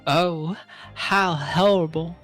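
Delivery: horrified gasp. Acted. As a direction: gasp it out in horror. Reading Iris line.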